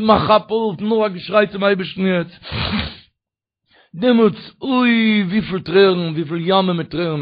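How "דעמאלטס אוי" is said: tearful cry. Acted. Preacher's weeping cry.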